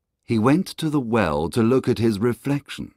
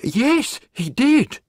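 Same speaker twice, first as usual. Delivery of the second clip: higher, louder character voice for the woodcutter; 5 dB louder, slower than usual. Acted. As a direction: answer her firmly. Woodcutter answers the woman.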